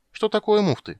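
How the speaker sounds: put-on high, loud childish question; a girl interrupting; curious little girl. Ciri to Geralt, high curious interruption. Ciri's voice.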